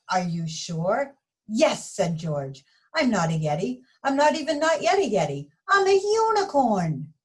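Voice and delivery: put-on lively read-aloud for children; story narration. A narrator's reading. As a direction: read it like storytime for little kids. Reading picture book to children.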